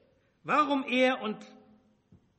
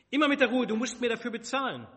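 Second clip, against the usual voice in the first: mock calming; 6 semitones higher, 7 dB louder, faster than usual. Jacob bargains with Esau.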